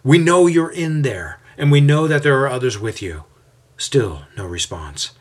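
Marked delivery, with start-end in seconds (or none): 0.0-3.2 loud and high, through a door; loud calling. A narrator's reading. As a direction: call out so he must hear. Leader calling at closed door.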